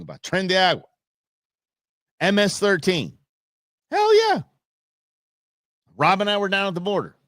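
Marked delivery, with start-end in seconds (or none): 3.9-4.4 high, loud triumphant whoop; cheer. Real, not acted. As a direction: celebrate it out loud. Cheering the crackdown.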